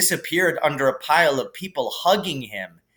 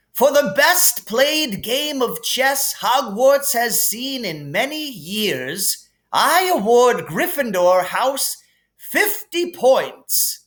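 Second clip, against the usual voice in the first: higher, grand headmaster voice; Dumbledore voice; 10 semitones higher, slower than usual. Acted. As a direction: hand out points with relish. Dumbledore awarding points.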